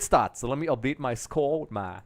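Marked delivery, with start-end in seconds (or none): 1.6-2.0 accidental American accent on one word. Real, not acted. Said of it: "I'm using an American accent there".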